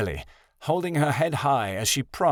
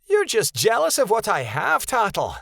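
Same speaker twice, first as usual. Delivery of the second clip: put-on higher, taunting young wolf brag; higher, louder boastful taunt; bragging; 11 semitones higher, 3 dB louder than usual. A narrator's reading. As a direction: rub it in his face. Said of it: "Rebecca bragged".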